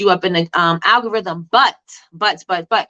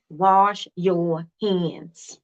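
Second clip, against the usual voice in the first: very slow, laughing through the words; much slower than usual. Shown as a demonstration. Teacher teasing a viewer about soap samples, laughing. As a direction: chuckle as you drag out Wash your hands.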